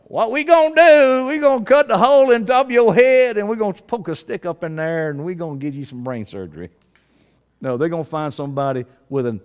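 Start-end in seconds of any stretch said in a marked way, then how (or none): 0.0-6.7 redneck Southern surgeon. Acted. Preacher playing a surgeon nobody would hire, hammed-up redneck Southern accent. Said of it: "I had to get a redneck Southern Columbus".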